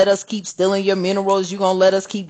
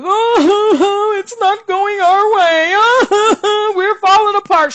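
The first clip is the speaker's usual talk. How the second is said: high, whiny mock sobbing with laughs; mock crying whine; 11 semitones higher, 4 dB louder, much slower than usual. Mocking crybabies in the US with a fake whine. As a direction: whimper it like a crybaby. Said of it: "everybody wanna cry over here".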